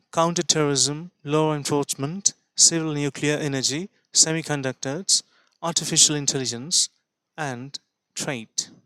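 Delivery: each list item slow with a rising end; slow list, lift the end of each item; slow list reading. Shown as a demonstration. Teacher reads the list slowly to students. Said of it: "তারপর থেমে বলছি".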